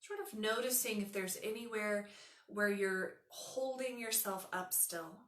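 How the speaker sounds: calm, unhurried meditation voice; guided meditation. Acted. Yoga teacher settling students under an imagined weighted blanket, guided meditation. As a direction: guide them gently into rest, letting phrases settle.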